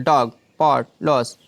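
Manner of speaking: डॉग, पॉट, लॉस each with a short, quick vowel. Shown as a demonstration. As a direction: say डॉग, पॉट, लॉस with a jerk, not drawn out. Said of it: "इसको हम झटके से बोलते हैं". (डॉग, पॉट, लॉस झटके से, छोटे स्वर में)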